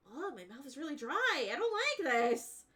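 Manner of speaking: high, loud whining with gauze; whiny patient. Retold or imitated. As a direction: whine like a groggy patient. Whiny self quoted with gauze.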